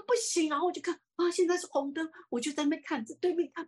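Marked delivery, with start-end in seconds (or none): 0.1-0.5 panicked no. Retold or imitated. Frightened refusal in the story.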